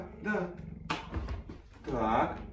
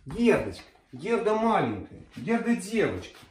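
talking to a dog; 4 semitones higher than usual. Real, not acted. Coaxing the dog.

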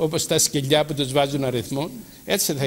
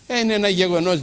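higher, louder mock of the skeptic woman; mocking the atheist; 6 semitones higher, 7 dB louder, faster than usual. Preacher mimics the atheist lady to his flock, mock scoff. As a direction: scoff it like the unbelieving lady would. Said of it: "λέγει".

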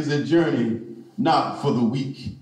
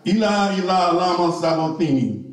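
cried out; 3 semitones higher than usual. Acted. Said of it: "Why did he cry?".

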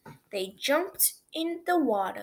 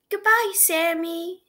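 loud cheerful farewell call; calling goodbye; 7 semitones higher, 7 dB louder than usual. A narrator's reading. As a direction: call out goodbye across the pool.

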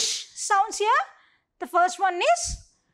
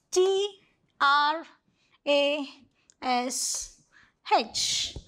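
spelling aloud; 3 semitones lower, much slower than usual. Shown as a demonstration. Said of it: "let's complete the words first".

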